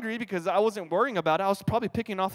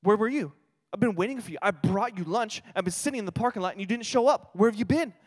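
scolding mom; 3 semitones higher than usual. Retold or imitated. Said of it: "she goes".

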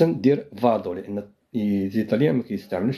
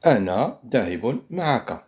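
slow demo; slower than usual. Shown as a demonstration. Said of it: "عندما أقول".

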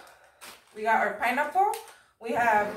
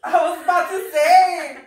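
laughing; 5 semitones higher, 10 dB louder than usual. Real, not acted. Same joke, burst out.

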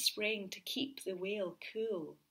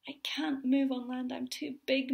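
moan; 5 semitones higher, 5 dB louder than usual. Acted. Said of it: "moaned the whale".

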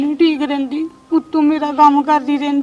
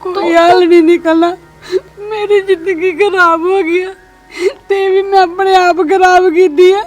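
crying; 2 semitones higher than usual. Acted. Telling her sister she ruined her own life, sobbing. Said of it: "ਤੂੰ ਐਵੇਂ ਰੋਈ ਜਾਣ ਡਈ ਆ।".

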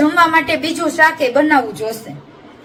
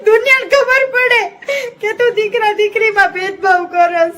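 higher, tearful-laughing call to the world; half-laughing outcry; 4 semitones higher than usual. Real, not acted. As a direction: cry out with mock despair. Daughter calls out mother's bias.

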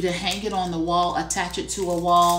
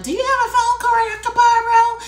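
1 high mock coworker; 7 dB louder than usual. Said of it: "somebody's like".

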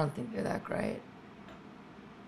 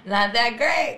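higher, louder punchline; mock stand-up comic; 7 semitones higher, 7 dB louder, slower than usual. Comic joining the parody of her own joke, loud high punchline. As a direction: push it out like a hack comic.

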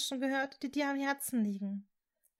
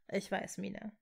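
breathed; 2 semitones lower, 7 dB quieter than usual. A narrator's reading. Severus comforts tearful Hermine, in a hushed breath. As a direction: breathe it quietly to comfort her. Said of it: "hauchte er".

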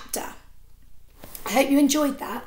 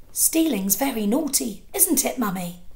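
put-on little boy. Little boy asks his mother.

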